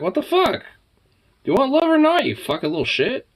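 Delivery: high, loud mock scolding of the pet; mock angry yell. Real, not acted. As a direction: yell at him in fake outrage.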